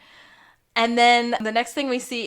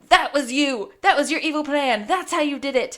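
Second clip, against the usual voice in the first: raised, emphatic mock accusation; accusing; 4 semitones higher, 4 dB louder than usual. Pointing out the culprit in a retold reveal, mock accusing. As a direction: lay out the retold charge like a detective.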